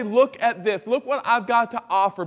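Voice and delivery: a touch of showing off; lightly voiced proud boast; mock bragging. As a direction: hold up your offering proudly. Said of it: "We won't stand before God and say".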